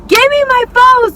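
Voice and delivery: high, loud mock demand; retold angry yell. Teller climbing over for her phone, acted yell. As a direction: yell it as if lunging to grab it back.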